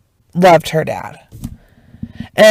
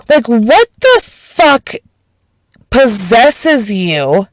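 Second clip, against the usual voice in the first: real outrage; 3 semitones higher, slower than usual. Real, not acted. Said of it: "it made me fucking just so mad".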